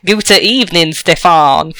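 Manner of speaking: lightly mocked American accent; Brad Pitt. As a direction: imitate a bad American trying German. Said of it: "you want to be like Brad Pitt".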